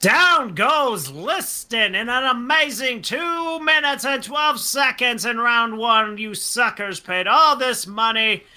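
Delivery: shouted knockout call; mock fight announcer. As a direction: belt it out like a boxing announcer calling the knockout.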